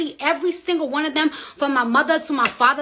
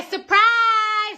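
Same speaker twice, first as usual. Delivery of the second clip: mock God voice; 9 semitones higher, 3 dB louder than usual. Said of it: "God said".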